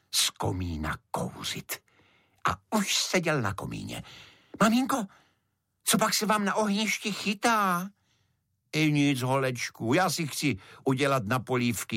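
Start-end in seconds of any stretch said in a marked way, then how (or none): 4.6-7.9 put-on a small child curious about the fire; child beetle voice. A narrator's reading. Little beetle asks mother about the fire, childlike voice.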